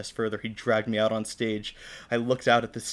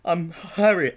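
higher, louder, hesitant introduction; nervous stammer; 6 semitones higher, 6 dB louder, much slower than usual. Acted. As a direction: stumble nervously into the name. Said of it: "I stammered".

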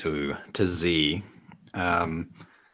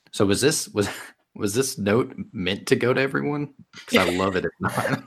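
laughing; 5 semitones higher than usual. Real, not acted. Laughing player asks about note.

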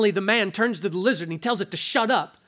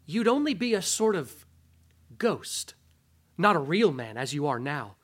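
wheedling lizard. Acted. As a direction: whisper sweet temptation in his ear. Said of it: "and the lizard said".

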